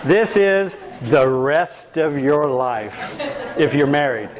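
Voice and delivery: slow words through a chuckle; laughing. Real, not acted. Teasing a participant's semester joke, laughing slowly. Teasing reply to a joking question.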